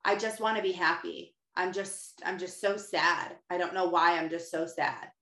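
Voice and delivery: low, slowing mock moping; a touch of hammed-up misery; mopey self-pity. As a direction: imitate your old sad self. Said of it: "I said that over and over".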